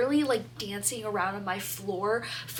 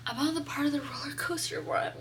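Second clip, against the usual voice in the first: whisper; 2 semitones higher, 4 dB quieter than usual. Real, not acted. Hushed build-up to the punchline.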